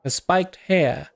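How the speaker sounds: measured storybook read-aloud; game narration. A narrator's reading. Narrator describing a tattooed woman to the player, game narration. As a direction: narrate it like a tabletop scene.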